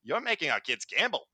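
mock Australian accent sliding towards Cockney; bad Australian accent. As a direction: put on a shaky attempt at an Australian accent. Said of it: "Is that your best Australian".

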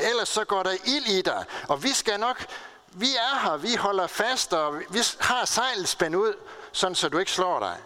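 retold urging shout. Firefighters urging a trapped boy to jump, mild retold shout. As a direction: urge him on as if calling upward. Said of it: "råbte brandfolkene".

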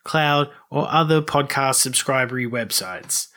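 lighter announcer read, eases back down. Acted. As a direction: keep the announcer sign-off rolling. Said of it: "Keep going".

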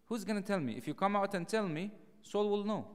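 anxious cry of a frightened friend; worried David. Retold or imitated. Worried David voiced in retelling.

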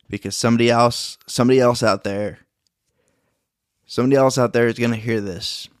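shaking voice. Real, not acted. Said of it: "my voice is shaking right now".

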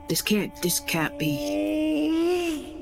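choked up. Acted. Character awed, near tears.

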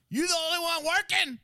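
very high, loud, laughing disbelief; incredulous customer. Retold or imitated. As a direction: squeak out the outrage. Imitating angry customer in line.

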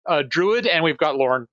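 high, slow, pompous announcer voice, pitched well up; grand herald greeting. Acted. Bard hailing the kobold guards, slow and high-pitched. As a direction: puff it up like a showman hawking his troupe. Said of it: "I will say".

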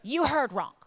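retold reproach, loud opening word, pauses between blows; angry retort to husband. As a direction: land each accusation separately. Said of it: "I'm furious".

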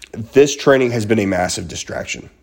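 throat catching mid-sentence; slightly choked delivery; coughing fit. Real, not acted. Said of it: "apologize for the coughing".

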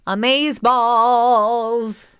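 slow, stretched-out excited cheer. Real, not acted. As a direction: drag out the word with glee. Enthusiastic exclamation.

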